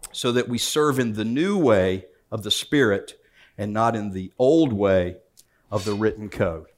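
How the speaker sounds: measured reading of the passage aloud; formal Bible reading; scripture reading. Acted. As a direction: read the verses with weight. Scripture reading of Romans seven.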